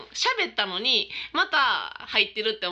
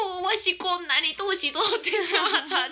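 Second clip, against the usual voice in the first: mock tearful grandpa; 9 semitones higher, slower than usual. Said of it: "って言って、また泣いて".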